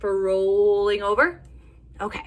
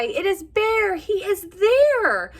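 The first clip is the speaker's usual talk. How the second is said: squawking birds; 12 semitones higher, 6 dB louder, much slower than usual. Acted. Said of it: "all squawk from the sky".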